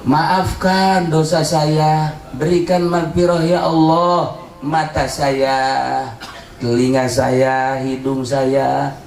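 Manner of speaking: measured, pleading prayer voice; repentant prayer. Acted. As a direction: pray steadily, confessing sin by sin. (doa tobat yang memohon)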